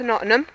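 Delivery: Nottingham run together with a swallowed middle; southern pronunciation. Real, not acted. Vlogger naming the city to viewers, Nottingham squashed in a southern accent. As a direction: say Nottingham quickly as "Nottnum". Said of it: "southern accent gets in the way and I pronounce it Nottingham".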